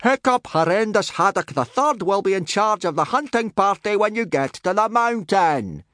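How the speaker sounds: high bellowed announcement; big shouted voice, pitch way up; yelling. A narrator's reading. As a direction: yell the orders across the snow. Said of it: "yelled Gobber".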